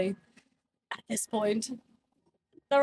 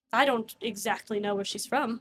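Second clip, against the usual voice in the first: NPC voice. Acted. GM voicing the NPC for the players, straight. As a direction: deliver it in character, straight-faced. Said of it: "stop with that noise".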